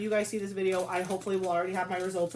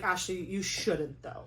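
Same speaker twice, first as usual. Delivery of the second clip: gentle self-scolding; 4 dB quieter, slower than usual. Retold or imitated. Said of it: "And it's like".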